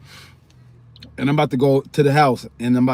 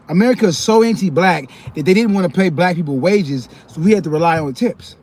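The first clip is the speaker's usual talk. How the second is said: indignant; 5 semitones higher, 6 dB louder than usual. Real, not acted. Indignant rant.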